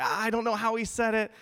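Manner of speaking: mock puzzled look. Shown as a demonstration. Preacher acts out his own puzzled look to the congregation, hammed up. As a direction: toss it off with a comic shrug. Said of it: "like, look and be like".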